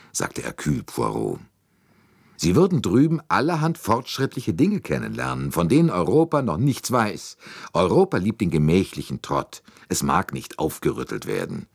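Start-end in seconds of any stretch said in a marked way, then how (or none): 2.4-11.7 a hint of a brisk American talker, pitched higher; Hardman's boastful tone, voiced higher; lightly voiced brash American. Hardman speaks, American detective. (ein amerikanischer Detektiv, leicht gespielt, etwas höher)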